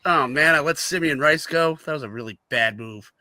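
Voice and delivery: lightly voiced low-key regret; Bill Bidwill. Host imitating an owner owning a mistake, mildly rueful and low. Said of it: "He was just kinda like".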